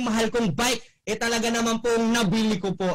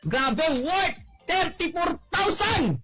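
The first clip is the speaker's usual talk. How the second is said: excited shout; 4 semitones higher, slower than usual. Real, not acted. Bragging about prize e-bike.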